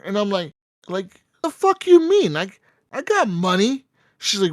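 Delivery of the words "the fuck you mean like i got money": very high, loud indignant outburst; high-pitched offended comeback; outraged squeal. Retold or imitated. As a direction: shriek it like you can't believe the insult. Retorting to being called broke.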